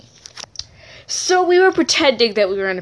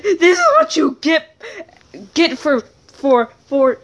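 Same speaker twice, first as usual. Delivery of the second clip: lightly stuttered, higher at start; stuttering; 5 semitones higher than usual. Retold or imitated. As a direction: trip over the words. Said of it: "Charles began to stutter".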